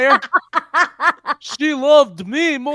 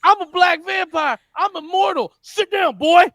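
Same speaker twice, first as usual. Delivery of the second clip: proud vampire boast; 6 semitones higher, 5 dB louder than usual. Pretend. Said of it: "You're like".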